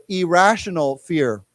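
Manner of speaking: "Irrational fear" slowly, each word distinct; word modelling. Shown as a demonstration. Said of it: "why don't we say this together".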